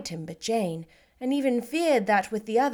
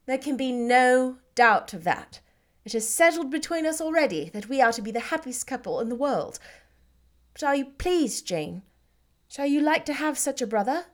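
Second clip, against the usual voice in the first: lightly voiced, a little higher; Elizabeth, happy; 3 semitones higher than usual. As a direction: Lizzie glowing, asking approval. Elizabeth happy, asking Jane.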